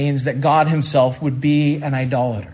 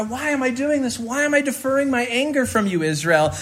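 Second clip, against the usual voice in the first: God's voice, questioning; 7 semitones higher than usual. Acted. Voicing God's rhetorical question.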